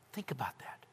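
very soft, low invitation to ponder; reflective hush. Acted. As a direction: let it sink in almost whispered. Closing Selah pause in hush.

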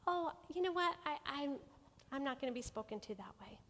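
gently firm. Shown as a demonstration. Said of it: "We can just say".

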